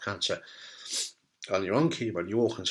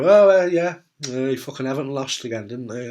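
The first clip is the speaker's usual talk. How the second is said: loud awkward small talk; awkward visitor; 6 dB louder than usual. Retold or imitated. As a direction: blurt it out, then trail off. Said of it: "They're gonna come in and go".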